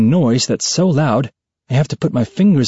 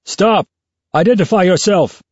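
booming voice; 5 semitones higher than usual. A narrator's reading. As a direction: boom it out across the water. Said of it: "a booming voice calls out".

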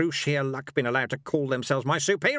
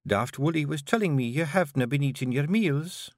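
careful. Acted. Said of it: "said Jeanie carefully".

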